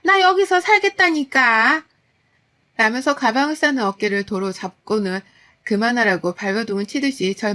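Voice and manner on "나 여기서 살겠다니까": much higher, louder, slow wail of protest; cling on and cry out like a desperate mother-in-law; shocked protest. Retold or imitated. Mother-in-law stopping her daughter-in-law from packing, shrill protest. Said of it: "기함을 치며 절 말리셨죠".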